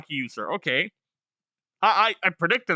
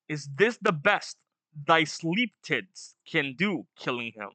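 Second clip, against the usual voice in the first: menacing villain; 3 semitones lower than usual. Acted. Villain line read aloud.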